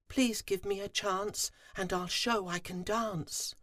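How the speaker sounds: begging the queen; humble plea; Fuzzy pleading. A narrator's reading.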